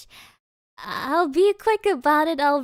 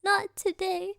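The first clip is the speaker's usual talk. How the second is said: softer, higher, lightly tearful apology; imitated tearfulness; 4 semitones higher, 5 dB quieter than usual. Intern excusing herself to the glasses store, mock tearful. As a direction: mildly re-enact crying through an apology. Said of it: "stood in front of them crying".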